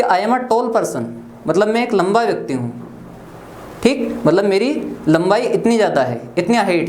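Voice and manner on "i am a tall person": slow, each word spaced; slow example sentence. Shown as a demonstration. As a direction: model it slowly for students. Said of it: "जैसे मान लो मैंने बोला कि". (धीमे, हर शब्द अलग)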